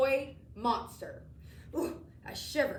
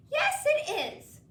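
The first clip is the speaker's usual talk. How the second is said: very high, slow, silky reply; a proud, silky creature drawing it out; Ralph's silky voice; 6 dB louder, slower than usual. A narrator's reading. Ralph answers the boy about polish, high and silky.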